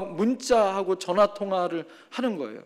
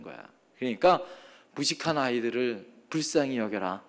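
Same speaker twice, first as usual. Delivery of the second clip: softer, gently calming words; soothing; 7 semitones lower, 6 dB quieter than usual. Retold or imitated. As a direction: settle a riled-up kid down. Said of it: "그러면서 다독여줬어요".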